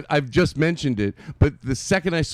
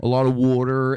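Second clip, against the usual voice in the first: put-on Philadelphia accent. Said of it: "How about that Philadelphia accent?".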